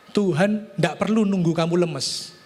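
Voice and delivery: ordinary delivery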